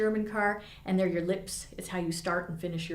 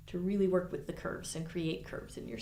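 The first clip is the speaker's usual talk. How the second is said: whispered; 2 semitones lower, 6 dB quieter than usual. Acted. Teacher stressing curving sound.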